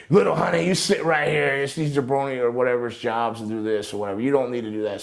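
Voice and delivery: a hint of a cocky wrestler; lightly voiced Flair bravado; imitating Flair. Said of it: "that Flair comes up".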